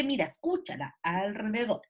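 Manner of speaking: put-on carefully articulated "alrededor", as if helping a child hear it; effortful sounding-out. The teacher telling a pupil to listen, "alrededor" carefully sounded out. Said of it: "el esfuerzo que hace la profesora".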